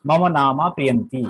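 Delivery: মম নামা প্রিয়ন্তি ending on a plain "ti"; no visarga. Shown as a demonstration. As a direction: end প্রিয়ন্তি with no h sound. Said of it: "তখন প্রিয়ন্তি বলতে হবে".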